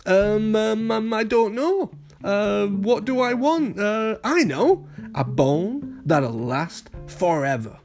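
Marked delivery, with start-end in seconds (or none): 0.1-4.9 high pup voice, drawn-out ums; hesitant pondering. A narrator's reading. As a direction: think aloud, then land on an idea. Pup ponders his first wish.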